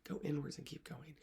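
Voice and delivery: softened mantra. Shown as a demonstration. Coach closing the mantra to readers, soft fading repeat. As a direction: ease off, let the words settle.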